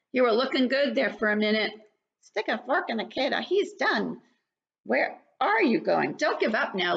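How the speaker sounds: lively storybook read-aloud; reading to children. Acted. Teacher reads to young children, lively and bright.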